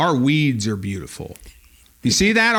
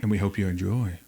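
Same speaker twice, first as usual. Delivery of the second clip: eerie storyteller hush; like telling a spooky tale; ghost story voice; 3 semitones lower, 4 dB quieter than usual. Real, not acted. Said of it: "Why did I say it like a ghost story?".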